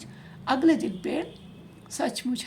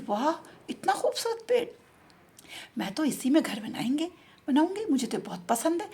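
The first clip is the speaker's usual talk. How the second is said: enchanted she-pigeon; 3 semitones higher than usual. Acted. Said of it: "मोहित हो गई".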